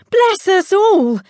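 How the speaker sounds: a high, slow gasp of surprise; startled mother. Acted. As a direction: stretch it out in shock. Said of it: "she said".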